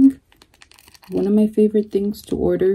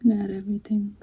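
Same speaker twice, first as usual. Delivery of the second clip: whispering; 6 dB quieter, much faster than usual. Real, not acted. Quiet aside while adding sauce.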